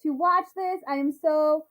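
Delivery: high, eager greeting, stretching words out; excited. Real, not acted. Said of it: "so flippin' excited".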